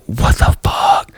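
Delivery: slow shocked whisper; whispered disbelief. Retold or imitated. Whispering to Elise in bed, shocked. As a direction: breathe it out in disbelief. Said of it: "I was like".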